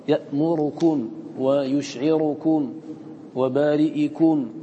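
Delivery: يأمركم with the ر vowel barely touched; slow demo of ikhtilas. Shown as a demonstration. Teacher demonstrating Abu Amr's snatched vowel. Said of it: "يقرأه بالاختلاس".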